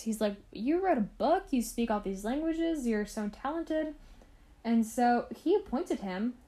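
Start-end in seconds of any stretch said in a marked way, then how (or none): 0.5-3.9 impressed Howe, imitated. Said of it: "was really impressed with this".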